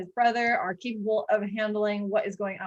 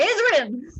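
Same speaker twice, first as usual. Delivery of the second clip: calling out; 6 semitones higher, 3 dB louder than usual. Acted. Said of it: "He's gonna say".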